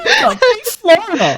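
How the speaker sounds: high, hammed-up Florida American; attempted American accent. Failed try at American accent.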